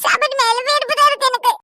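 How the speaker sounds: put-on a small boy happily agreeing; cheeky child. Child voice continues. (சிரித்தபடி பேசும் குறும்புச் சிறுவன் குரல்)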